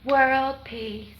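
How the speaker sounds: lightly voiced beauty queen answer; pageant contestant. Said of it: "They'll be like".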